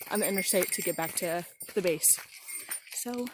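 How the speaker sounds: panting between phrases after the hike; short of breath, catching air. Real, not acted. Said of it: "Sorry I'm out of breath again".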